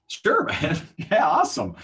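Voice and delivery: high, upbeat agreement with a laugh; retold eager yes. Trainer agreeing to cold calls with a rep, eagerly. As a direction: jump at the offer, pitched well up.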